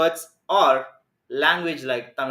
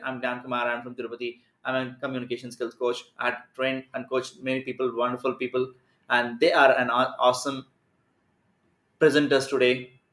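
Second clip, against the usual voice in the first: rushed, no pauses; 3 semitones lower than usual. Shown as a demonstration. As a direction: rattle it off without any gaps. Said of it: "if you speak this way without giving any kind of space or gap".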